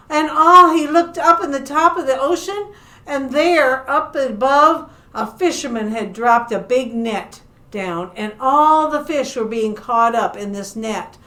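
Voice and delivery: lively, animated storytelling; story narration for children. Acted. Librarian telling children about a shark among fish, animated storytelling. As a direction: tell it to little listeners with playful emphasis.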